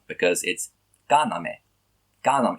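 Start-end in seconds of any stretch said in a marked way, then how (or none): 1.1-1.6 "kaname" stressed on the first syllable, ka; antepenultimate stress. Shown as a demonstration. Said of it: "possible to stress the word on that". 2.2-2.6 "Kaname" with the stress on Ka; antepenultimate stress. Shown as a demonstration. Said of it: "It's still the antepenultimate".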